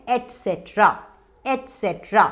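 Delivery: एटसेटरा said as a full word; correct pronunciation. Shown as a demonstration. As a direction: say एटसेटरा as "et-set-ra". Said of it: "इसका correct pronunciation है".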